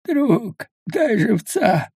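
high, slow, strained plea for food; dying man's plea. A narrator's reading. Starving man begs a stranger for food, strained and high. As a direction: beg weakly, a starving man.

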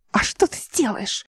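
soft, sneering, taunting hiss; mocking hiss. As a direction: taunt him in a quiet hiss. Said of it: "издевательски прошипел Нейба".

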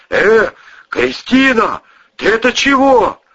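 high, loud, slow anxious call; alarmed. Acted. Cousin shaking the fallen woman, high alarmed call. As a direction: try to rouse her, scared.

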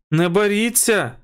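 high, slow urgent call. A narrator's reading. Wilson calls out to the pilot, high and slow. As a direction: call out to stop the fight. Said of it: "гукнув Вілсон".

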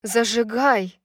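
loud urgent command; insistent demand. Acted. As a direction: demand it, pressing harder. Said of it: "Всё настойчивее требовала Даника".

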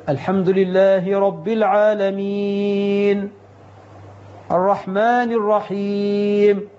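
slow recitation pausing at each verse end. Shown as a demonstration. Imam showing the right recitation, slow and paused. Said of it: "يقف عند كل آية يمد بها صوته".

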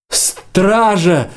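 high-pitched cry for the guard; straining shout. A narrator's reading. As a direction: call out as if with all your might. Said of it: "закричал Варан, что из силы".

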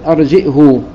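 "أرجئه" with a glottal stop and long final uu; hamza, damma with silah. Shown as a demonstration. Teacher demonstrating Ibn Kathir's reading, "أرجئه" ending in long u. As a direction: say "أرجئه" as arji'huu. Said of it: "وضم الهاء مع الصلة".

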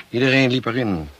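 husband erupting in bitterness; outburst. Acted. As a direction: spit it out bitterly.

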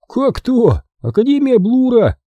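put-on high, chirpy boy; jaunty, high-pitched exclamation; cheerful. A narrator's reading. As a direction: answer brightly as if it were obvious. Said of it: "жизнерадостно отозвался Фиделио".

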